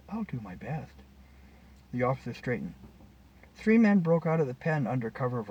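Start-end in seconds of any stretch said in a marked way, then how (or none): 0.1-0.9 soft, quiet reply; softly. A narrator's reading. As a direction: answer gently, voice lowered. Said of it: "She spoke softly".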